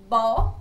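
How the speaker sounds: "bo" said alone, loud and clear; syllable bo stressed. Shown as a demonstration. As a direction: sound out "bo" as a loud separate syllable. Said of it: "a gente pode notar o som do".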